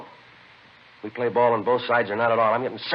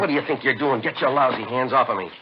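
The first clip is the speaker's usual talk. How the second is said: angry protest. Acted. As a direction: push him off, furious. Angry buyer shoved during search.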